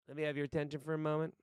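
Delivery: lightly acted, brisk speech opening; monologue audition voice. Boss addressing the salesmen in an audition, brisk monologue voice. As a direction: call the sales room to attention, quickly. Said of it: "Here's my monologue audition".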